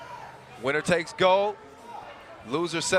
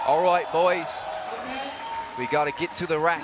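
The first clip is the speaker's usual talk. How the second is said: attempted Australian accent, as a team pep talk. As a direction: have a light go at an Australian accent. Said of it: "That was my best Australian accent".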